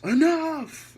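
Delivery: high, very loud imitated shout; Daniel Bryan's yell. Retelling Daniel Bryan stopping the bickering, imitated yell. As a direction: belt it out like an authority breaking up a fight. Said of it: "Daniel Bryan yells".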